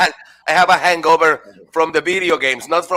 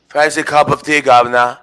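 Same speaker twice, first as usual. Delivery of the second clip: put-on louder hammy British accent; mock British accent; 5 dB louder than usual. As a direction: play a cartoon Brit. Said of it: "They're from New Zealand".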